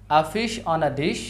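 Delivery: very slow, fish stressed; stressed syllables. Shown as a demonstration. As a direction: drag it out, leaning on fish. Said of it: "সেন্টেন্সের মতো করে বলবো". (ধীরে, fish-এ জোর)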